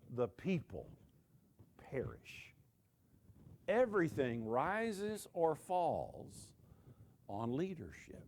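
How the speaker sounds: usual speaking voice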